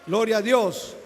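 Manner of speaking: loud fervent cry of glory to God; preacher shouting to his congregation; shouted praise. Real, not acted.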